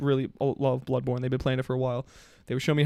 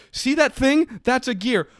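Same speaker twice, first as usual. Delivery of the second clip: mock patient friend; 9 semitones higher, 3 dB louder, slower than usual. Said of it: "he goes".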